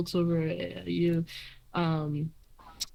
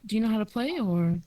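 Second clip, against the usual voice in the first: lightly voiced friendly elf; 3 semitones higher than usual. Silksong talks about banjos.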